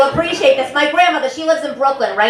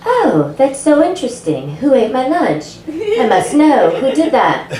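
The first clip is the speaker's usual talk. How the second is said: mock polite office voice; 5 semitones higher than usual. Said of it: "I was like".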